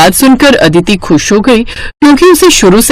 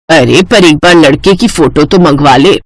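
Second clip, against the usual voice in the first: cautious mother; 6 semitones lower than usual. Acted. Mother asks daughter to get the boy's photo, cautious. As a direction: lower motherly voice.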